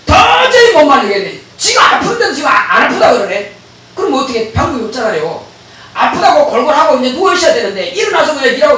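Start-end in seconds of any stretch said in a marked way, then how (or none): 0.1-3.5 exasperated demon. Retold or imitated. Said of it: "그러니까 귀신이".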